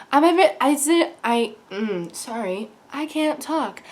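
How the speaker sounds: soft, halting mock fluster; nervous. Fan greeting the actress, nervous. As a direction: stumble quietly over the words, tongue-tied. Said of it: "I'm a little bit nervous".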